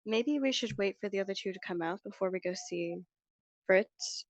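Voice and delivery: character voice for B; soft in-character voice as B. Acted. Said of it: "That's a very good B voice".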